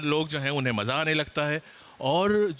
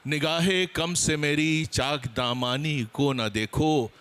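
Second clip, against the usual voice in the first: poetry recitation; slower than usual. Acted. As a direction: savour each line of the couplet. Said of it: "कुछ थोड़ा सा शेरी अंदाज". (धीमी, ठहरी हुई शेर ख़्वानी)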